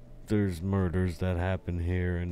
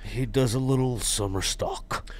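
whisper; 3 semitones higher than usual. Pretend. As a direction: breathe the line out as a whisper. Ribbing a friend about acting.

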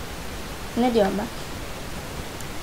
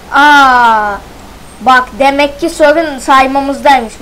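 surprised realisation; 6 dB louder, slower than usual. Real, not acted. Sudden realisation.

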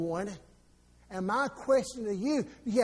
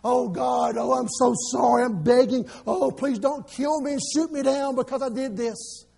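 hammed-up begging prayer, louder; mock fearful begging; 3 dB louder than usual. Pastor mocking religious prayer, loud begging voice. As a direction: grovel to God in mock terror. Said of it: "He didn't say".

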